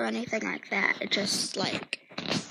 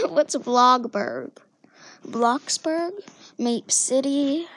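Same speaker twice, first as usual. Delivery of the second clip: hammed-up questions; 6 dB louder, slower than usual. Hammed-up game name questions.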